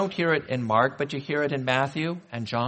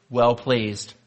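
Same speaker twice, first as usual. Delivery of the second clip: slow, spaced words with a loud mock-angry "angry" before "well pleased"; playful false start of the divine blessing; joking misquote; 4 dB louder than usual. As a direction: tease the crowd with the wrong words, then land on "well pleased".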